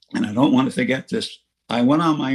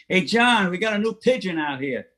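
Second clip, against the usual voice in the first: a lightly raised call across the room, pitched higher; mild retold yell; 6 semitones higher than usual. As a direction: call out to John at the door, half-joking. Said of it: "he yells".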